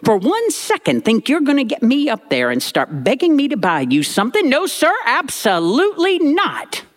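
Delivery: high, stern mock granny warning. Grandmother warning the boy on the bus, high stern mock. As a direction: wag a finger like a strict grandma.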